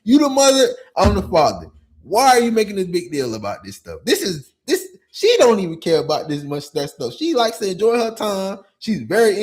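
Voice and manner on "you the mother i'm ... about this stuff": louder, exasperated demand; exasperated retort. Retold or imitated. Father scolding the mother in retelling, exasperated. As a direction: raise it, fed up. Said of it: "I'm looking at this stuff like".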